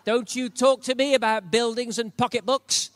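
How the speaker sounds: loud, hammed-up indignant scolding; mock annoyed protest. Pastor mock-scolding God over buildings, loud and hammy. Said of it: "I wanted to go".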